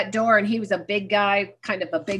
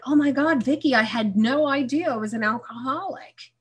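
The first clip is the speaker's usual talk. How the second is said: retold revelation; 5 semitones higher than usual. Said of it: "I'm like".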